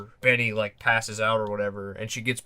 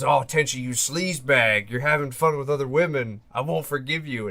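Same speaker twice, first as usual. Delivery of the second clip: lightly voiced indignant girlfriend; a touch of mock outrage, a little raised; half-acted jealous accusation; jealous scolding; 3 semitones higher than usual.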